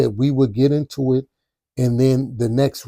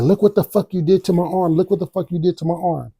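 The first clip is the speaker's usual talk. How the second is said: higher, mock-accusing imitation, quickening; angry girlfriend; 5 semitones higher than usual. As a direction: mimic her shoving the injury in his face. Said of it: "She said".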